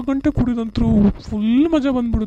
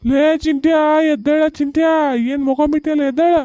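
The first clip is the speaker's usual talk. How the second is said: calling out; 5 semitones higher than usual. Acted. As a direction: rouse the sleeping son. Drunk father wakes son. (ಮಗನನ್ನು ಎಬ್ಬಿಸುವ ಕೂಗು)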